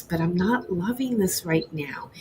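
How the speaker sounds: whispered. Retold or imitated. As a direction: whisper it like you're breaking down. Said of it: "I started crying".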